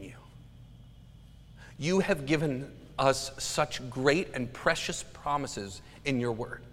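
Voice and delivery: an earnest, hushed pastoral prayer; spoken prayer. Real, not acted. The pastor prays for the church to trust God's promises, hushed and earnest.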